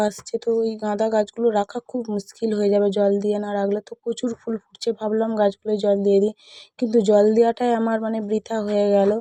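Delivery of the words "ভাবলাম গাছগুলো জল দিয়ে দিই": toothbrush in mouth; while brushing teeth. Real, not acted. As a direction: speak with a brush in your mouth. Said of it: "brush করতে করতে".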